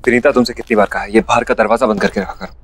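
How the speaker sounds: fast, irritated scolding; angry. Acted. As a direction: snap at her impatiently. Husband snapping at wife.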